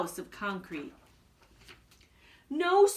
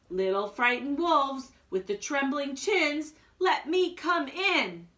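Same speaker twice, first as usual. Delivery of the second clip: coaxing big bad pig; 3 semitones higher than usual. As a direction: drag it out like a wheedling pig.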